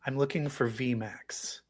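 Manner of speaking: slow, secretive whisper; hushed imitation of a character; whispered quote. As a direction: whisper it slowly like a cryptic clue. Quotes the character's repeated line.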